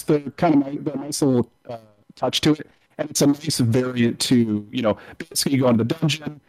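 muffled, like talking through a pillow; words smothered by a bad mic. Real, not acted. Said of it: "you're talking through a pillow".

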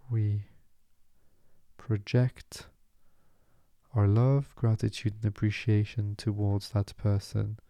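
measured meditation voice, long pauses between phrases; guided meditation. Acted. Meditation teacher easing listeners into stillness, calm guiding delivery. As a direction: guide them into calm, unhurried and spacious.

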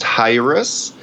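"Hyrus" in two syllables with an r; "Hyrus" pronounced as a careful example; taught pronunciation. Shown as a demonstration. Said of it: "it's actually pronounced".

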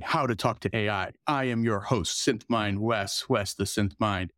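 grand entrance announcement. Acted. Host introduces show and co-host.

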